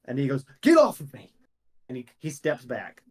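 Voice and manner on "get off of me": loud, high panicked yell; frightened outburst at the player; panicked shout. Acted. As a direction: shove them off with a scream. Frightened NPC shoving player away.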